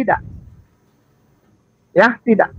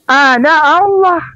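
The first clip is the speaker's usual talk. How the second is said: slow reading; 4 semitones higher, slower than usual. Shown as a demonstration. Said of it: "bacanya Ana".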